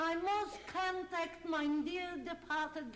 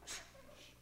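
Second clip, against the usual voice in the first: soft hush; 8 dB quieter, faster than usual. Acted. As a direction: hush them before the seance. Hushing before seance.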